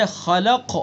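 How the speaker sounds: khalaq slowed, qaf released with a bounce; lesser qalqalah on qaf. Shown as a demonstration. Teacher illustrating a stop on a single letter, lighter echoing qaf in khalaq. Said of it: "اس سے کم سکون وقفی میں".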